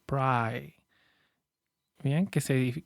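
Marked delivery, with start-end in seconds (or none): 0.1-0.8 "pry" with a long, drawn eye vowel; "pry" held out on its long I. Shown as a demonstration. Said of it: "Esa I larga".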